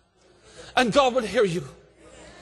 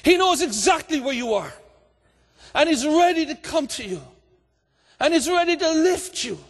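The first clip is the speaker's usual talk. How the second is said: raised, ringing preacher's voice with shouted peaks; full-force preaching. Acted. Preacher urging the hurting to cry out, full-force preaching. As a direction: preach it out to the whole hall.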